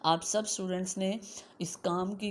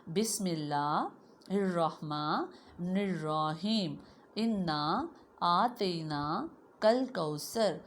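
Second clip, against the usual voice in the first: put-on slow, drawn-out recitation for children to repeat; teacher reciting for the class; much slower than usual. Shown as a demonstration. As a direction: chant the surah slowly, line by line. Recites the surah slowly.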